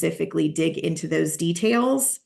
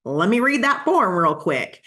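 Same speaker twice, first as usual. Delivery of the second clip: lightly voiced clueless agent, exaggerated pitch swings; lightly hammed-up "let me check" stalling; mock unprepared agent. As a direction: play a touch of fumbling uncertainty. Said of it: "You don't wanna be like".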